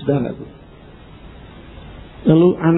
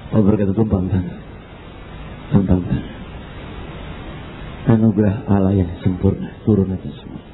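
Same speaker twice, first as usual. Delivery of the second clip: solemn prayer; 5 semitones lower, 3 dB quieter than usual. Retold or imitated.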